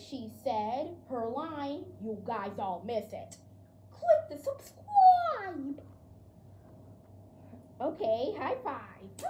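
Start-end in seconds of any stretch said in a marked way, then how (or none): 3.9-5.8 laughing plea. Real, not acted. Outro, laughing call to subscribe.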